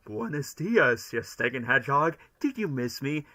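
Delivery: lightly voiced villain sneering at the hedgehog; Jim Carrey Robotnik. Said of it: "my best Jim Carrey impression of his iteration of Doctor Robotnik".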